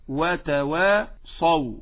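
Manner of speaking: slow وتواصوا, thin وا then dark ص; light waw, heavy saad. Shown as a demonstration. Teacher models the correct way, light waw and heavy saad. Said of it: "إنما نقول".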